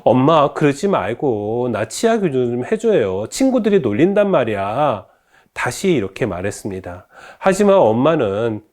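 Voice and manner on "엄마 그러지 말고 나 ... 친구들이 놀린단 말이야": mildly pleading, not giving in; a daughter's restrained nagging; insistent pleading daughter. Acted. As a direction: press mom with a light plea. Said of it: "굽히지 않고 다시 말합니다".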